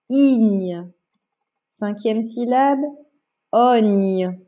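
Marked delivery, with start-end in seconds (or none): 0.1-0.9 drawn-out syllable; careful dictation. Shown as a demonstration. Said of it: "attention, écoute bien". 3.5-4.4 lower, drawn-out syllable; dictation. Shown as a demonstration. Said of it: "je vais te faire une dictée de syllabes".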